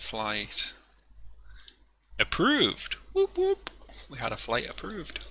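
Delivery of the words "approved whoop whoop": high, bright whoop of joy; excited cheer. Real, not acted. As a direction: celebrate the approval with a shout. Flight plan approved, cheering.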